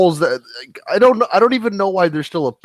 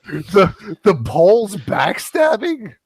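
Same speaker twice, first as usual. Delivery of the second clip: incredulous shout; 4 semitones higher, much slower than usual. Real, not acted. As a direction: shout it in disbelief. Incredulous outburst.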